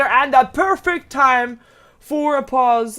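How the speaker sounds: slow, loud mock enthusiasm; deadpan sarcasm over the action; sarcastic. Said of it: "Okay, that was sarcasm".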